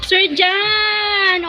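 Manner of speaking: high call across the room; shouted name. Real, not acted. Calling someone to come.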